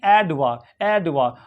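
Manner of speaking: एडवा ending in a very short "uh"; short schwa. Shown as a demonstration. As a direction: say एडवा as "AD-vuh", no R. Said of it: "वो भी very short".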